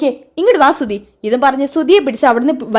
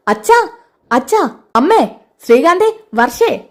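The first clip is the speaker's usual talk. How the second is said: angry son summoning everyone; shouted names, mostly mild; calling out angrily; 3 semitones higher than usual. Acted. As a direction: call out across the house, high at first. Angry son calls family home.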